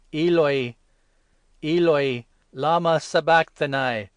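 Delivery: loud, high, anguished calling out; loud cry. Acted. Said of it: "Jesus called out loudly".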